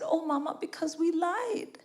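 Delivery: put-on high, drawn-out little-kid whine; tearful child, imitated. Crying daughter confessing to mother in the cinema, imitated high child voice. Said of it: "Then why are you crying?".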